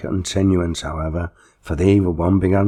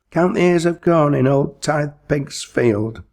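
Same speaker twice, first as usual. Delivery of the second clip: higher, urgent call; higher sudden cry; 9 semitones higher, 3 dB louder than usual. A narrator's reading. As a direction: blurt it out suddenly. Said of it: "suddenly cried the schoolmaster".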